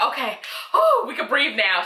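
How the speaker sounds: imitating her own relief; relieved sigh. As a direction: let the tension out with a whew. Relief on watching it live.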